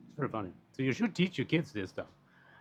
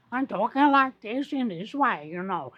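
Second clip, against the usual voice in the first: high, slow, posh British English put-on; mock an upper-class British speaker, drawn out; posh British accent; 12 semitones higher, 7 dB louder, slower than usual. Explaining UK class by voice, in a posh British accent. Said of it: "The way you sound, the dialect you use".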